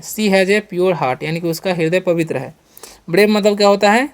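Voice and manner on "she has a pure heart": very slow, word by word; slow classroom dictation; slow example sentence. Shown as a demonstration. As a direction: spell it out slowly for the class. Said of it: "शुद्ध है".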